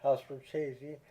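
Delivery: Richesi said "rih-CHAY-zee"; deliberate pronunciation. Shown as a demonstration. Reviewer showing viewers his chosen pronunciation, Richesi as "rih-CHAY-zee". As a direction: stress the middle of Richesi, "CHAY". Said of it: "I'm going to pronounce".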